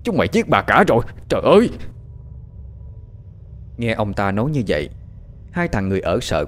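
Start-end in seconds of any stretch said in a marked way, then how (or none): 0.0-1.7 horrified master wailing over the murder, building to a yell; crying out in horror. A narrator's reading. Master cries out over his dead wife, horrified shout. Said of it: "Ông Chánh kêu lên".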